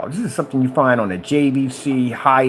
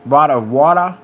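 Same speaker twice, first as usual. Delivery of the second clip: put-on loud, playful British accent; affectionate mock-British pronunciation; 5 dB louder than usual. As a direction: imitate a British accent with relish. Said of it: "I like it when they say".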